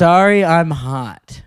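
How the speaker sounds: slow, drawn-out imitation of a heckler; lightly mock the excuse, stretching each word; mocking quote. Re-enacts the heckler's excuse slowly.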